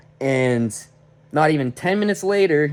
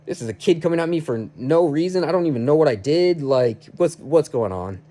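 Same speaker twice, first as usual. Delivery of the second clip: higher-pitched, wounded disbelief; hurt protest; 4 semitones higher than usual. Retold or imitated. Worker stung by kid coming at him, hurt protest. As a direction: recount feeling hurt, voice lifted in bewilderment. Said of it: "I felt hurt because I was like".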